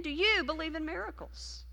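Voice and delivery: asked again at an even level; repeated question. Retold or imitated. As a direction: let the repeat hang, no push. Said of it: "he said it again".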